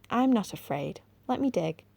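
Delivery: high, eager call; crying out. Acted. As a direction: call out bravely. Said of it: "Anthea cried out".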